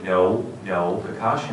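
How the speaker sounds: "Kakashi" corrected with stress on the middle syllable; director's correction. Retold or imitated. Director correcting the actor's take, "Kakashi" with middle stress. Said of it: "the director has to go".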